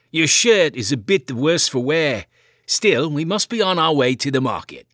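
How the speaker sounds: a hint of a concerned farmer uncle checking on the lad; gentle uncle asking if the boy is hurt; kindly uncle. A narrator's reading. Uncle voiced in story.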